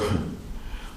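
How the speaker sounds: soft, breath-only chuckle; short quiet laugh under the breath; retold laughing. Patient answering the worried nurses, soft retold laugh. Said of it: "And I started laughing".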